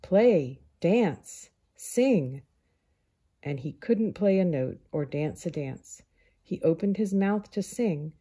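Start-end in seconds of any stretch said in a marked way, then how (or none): 0.0-2.4 louder demanding shouts; louder chant of a crowd; crowd shouting. Acted. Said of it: "crowd that shouted".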